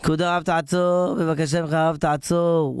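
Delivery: lightly acted hail with long vowels; calling from afar. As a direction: call after someone, stretching the last word. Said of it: "רואה מישהו מרחוק צועק לו".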